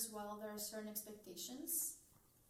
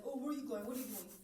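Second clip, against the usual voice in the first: joking; 5 dB louder, faster than usual. Retold or imitated. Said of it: "will say it as a joke".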